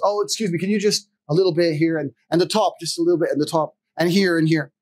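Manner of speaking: fussy customer. Retold or imitated.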